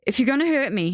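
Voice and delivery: high, pleading and hesitant; frightened appeal with a catch in it; words catching. A narrator's reading. Theo pleading at the end of Benji's knife, words catching. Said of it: "His words catch".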